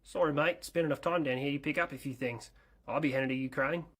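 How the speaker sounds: casual Australian lilt; Australian accent. Acted. Aircraft explaining its time down under, Australian accent. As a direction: answer like an Aussie mate. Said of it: "Why are you sounding like you're Australian".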